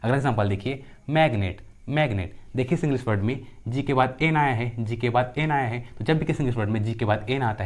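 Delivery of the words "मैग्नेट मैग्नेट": मैग्नेट with a hard G before N. Shown as a demonstration. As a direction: sound the G in मैग्नेट as in go. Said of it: "जी का उच्चारण ग होता है". (मैग्नेट में G को "ग" बोलते हुए)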